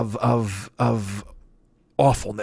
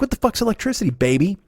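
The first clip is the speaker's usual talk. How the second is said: mock heckler; 7 semitones higher than usual. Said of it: "They're like".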